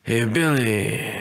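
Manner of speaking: slow mock gangster greeting; a light hint of an old movie mobster; tough-guy hawk. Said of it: "Is that how hawks talk?".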